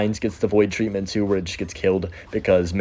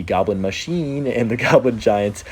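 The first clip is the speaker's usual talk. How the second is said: playful sound-effect imitation; slower than usual. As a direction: lightly mimic the game's card noise. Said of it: "wanna say it like that".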